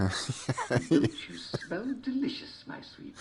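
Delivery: leering wolf. A narrator's reading.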